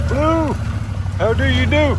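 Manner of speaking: high, sing-song voice for a dog; pet-talk voice. Real, not acted.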